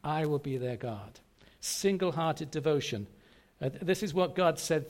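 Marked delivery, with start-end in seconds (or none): 0.0-1.2 "I" leads, "will be their God" falls away; weight on the opening "I"; stress on I. Shown as a demonstration. Preacher restating the promise, stress on "I". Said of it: "I just put the emphasis on".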